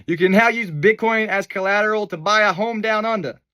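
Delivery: the Australian accent done again to fix the first; second go at an Australian accent. Shown as a demonstration. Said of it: "That was a bad Australian accent".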